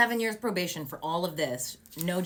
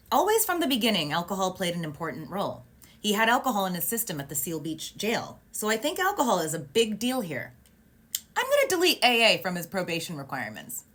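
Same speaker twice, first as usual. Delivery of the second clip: imitating emphatic judge; 3 semitones higher, 4 dB louder than usual. Retells judge's emphatic ruling.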